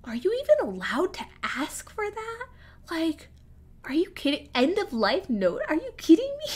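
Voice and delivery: high, incredulous outrage at the school; can't believe they'd ask that; indignant disbelief. Retold or imitated. Retelling her shocked reaction to the banner, high and incredulous. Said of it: "And I'm just like".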